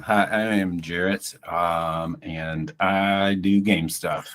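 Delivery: talking around a pen in the mouth; muffled with a pen between teeth. Real, not acted. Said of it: "as I put the pen in my mouth".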